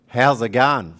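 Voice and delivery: loud, broad How's it going; demo Kiwi greeting. Shown as a demonstration. Kiwi speaker teaching greetings to the audience, loud demo. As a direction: belt out How's it going for the crowd to echo. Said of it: "Could you repeat after me?".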